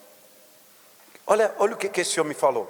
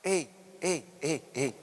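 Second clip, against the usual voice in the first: intimate appeal; 3 semitones lower than usual. Real, not acted. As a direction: lean in and speak gently to one person. Intimate appeal after shouting.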